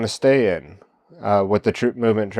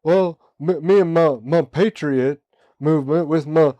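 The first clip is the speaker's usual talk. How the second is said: mock Southern gentleman; 7 semitones higher than usual. Host voicing a truther as a Southern gentleman, hammed-up Southern accent. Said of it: "turned into, like, a Southern gentleman".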